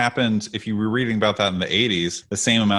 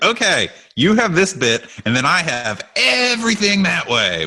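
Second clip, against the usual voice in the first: put-on childish kid voice; 8 semitones higher, 3 dB louder than usual. Imitating a kid claiming land.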